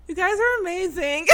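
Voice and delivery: high-pitched fangirl awe; gush, almost lost for words; starstruck gushing. Retold or imitated. Fan tells the wrestling couple, high starstruck gush. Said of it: "get any words out".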